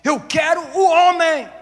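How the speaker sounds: voicing God, loud and high demanding; shouted divine demand; God's voice demanding. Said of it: "E Deus tá falando".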